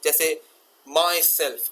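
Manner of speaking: usual speaking voice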